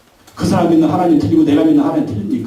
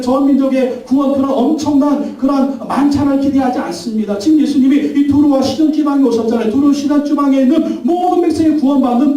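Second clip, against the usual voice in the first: raised, fervent preaching; impassioned pulpit climax; preaching at full force; 6 semitones higher than usual. Acted. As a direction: build the sermon to a peak.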